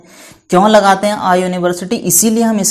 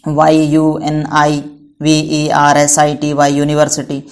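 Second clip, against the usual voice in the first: spelling out; slower than usual. Shown as a demonstration. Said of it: "ऐसे यूनिवर्सिटी को किससे start करेंगे?".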